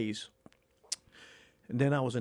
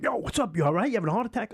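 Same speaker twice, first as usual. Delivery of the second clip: worried friend; 8 semitones higher, 3 dB louder, faster than usual. Retold or imitated. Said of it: "he's like".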